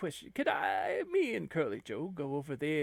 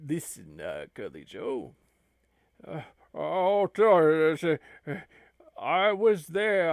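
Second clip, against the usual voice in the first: abbot's voice; 5 dB louder than usual. Acted.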